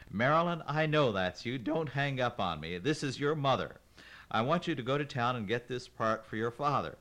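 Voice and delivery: insistent Grandma. Acted. Grandma insisting her daughter go to town. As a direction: demand it, voice climbing. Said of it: "Grandma started crying".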